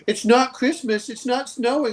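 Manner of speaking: high, slow mock complaint; whiny northerners. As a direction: whine it like a homesick snowbird. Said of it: "they're like".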